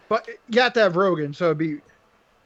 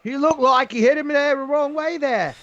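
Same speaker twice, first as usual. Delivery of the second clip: higher, hammy Cockney commentary; badly faked Cockney, close to Australian; mock Cockney accent; 5 semitones higher than usual. Host imitating Bisping's commentary, mock Cockney. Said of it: "Cockney British accent is near Australian".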